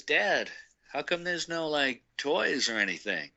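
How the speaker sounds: a hint of a puzzled youngster; kid asking dad. Kid asking his dad about toys, lightly voiced child. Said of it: "the kid's looking around".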